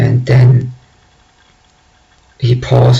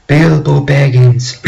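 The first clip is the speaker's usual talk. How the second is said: slightly raised, commanding wizard call; magnified wizard voice; 3 semitones higher than usual. Retold or imitated. Gandalf rebuking Bilbo, mildly magnified voice. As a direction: lightly act out a booming wizard calling someone to order.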